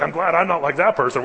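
smug Pharisee. Retold or imitated. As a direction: preen like a self-satisfied Pharisee. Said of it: "he's like".

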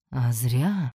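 smug, stretched-out reply; drawling. A narrator's reading. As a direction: draw the words out teasingly. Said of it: "протянул Рейми".

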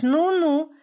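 high, loud drawn-out sneer; husband sneering at his wife's new job; spiteful drawl. A narrator's reading. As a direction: drag it out mockingly. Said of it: "зло протянул он".

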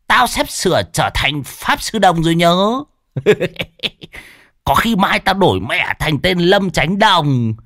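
high, swaggering brag; boastful old medium. A narrator's reading. Old medium Đồng bragging to Lâm, high boastful voice. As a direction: puff yourself up and crow. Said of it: "vảnh mặt ra oai".

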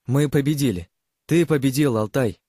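joyful laughing. A narrator's reading. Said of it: "Девушка вдруг рассмеялась".

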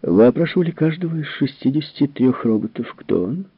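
a grim woman pressing for an answer; grim question. A narrator's reading. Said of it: "Келвин мрачно спросила".

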